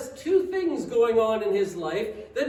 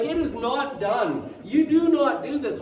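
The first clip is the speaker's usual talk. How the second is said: emphatic insistence; 5 dB louder than usual. Acted. Preacher insists it is not done.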